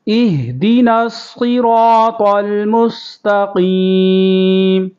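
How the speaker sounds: melodic teacher's tilawat; Quran recitation. Shown as a demonstration. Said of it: "قاف کو پر کریں گے".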